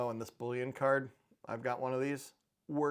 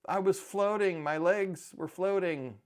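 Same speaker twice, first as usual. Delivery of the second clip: higher, louder mock wail; mock crying; 6 semitones higher, 5 dB louder than usual. Dad imitating daughter waking from laughing gas, mock crying. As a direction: imitate a tearful, dragged-out lament. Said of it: "crying, saying".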